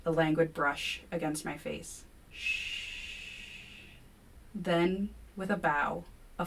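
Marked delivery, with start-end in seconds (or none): 2.3-3.9 soft drawn-out hush; creature whisper. A narrator's reading. Creature hushing them through the screen, whisper. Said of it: "A whisper drifts through the screen".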